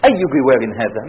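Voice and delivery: low-pitched, composed reproach; calm restraint. Acted. Prophet to his neighbours of Quraysh, calm reproach. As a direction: reproach them without losing your temper. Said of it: "المؤمن هادئ".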